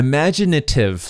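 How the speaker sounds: IMAGINATIVE sounded out in a Canadian way; Canadian pronunciation. Shown as a demonstration. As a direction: say "imaginative" as a Canadian would, falling at the end. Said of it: "when I was saying it to myself".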